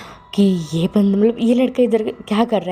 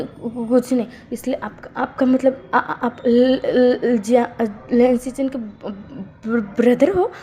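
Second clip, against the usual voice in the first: higher, halting nervous stutter; frightened stammer; 3 semitones higher, slower than usual. Acted. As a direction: stutter as if caught out. Wing stammers, scared of Wangji.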